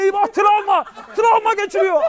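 high panicky stranger; panicking man. Retold or imitated. Bystander panics over the boy's trauma, voiced high. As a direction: fret high that the kid's in shock.

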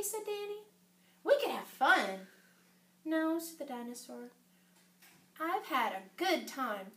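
gentle storybook dialogue; story reading to children. A narrator's reading. Dinosaur saying goodbye to Danny, gentle storytelling. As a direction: read the farewell tenderly for young listeners.

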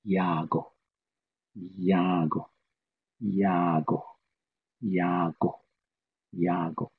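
"yago" repeated evenly and slowly; Navajo word drill. Shown as a demonstration. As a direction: drill "yago" calmly for listeners. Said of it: "opposite of that would be".

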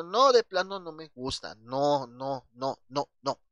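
"No" rotundo y repetido; negación enfática. Shown as a demonstration. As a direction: niega de plano, remarcando cada "no". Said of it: "poner énfasis en la negación". (negación tajante y enfática)

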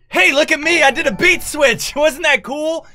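high, loud smug bragging voice; show-off voice. Retold or imitated. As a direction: brag like a show-off producer. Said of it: "It's not even like a".

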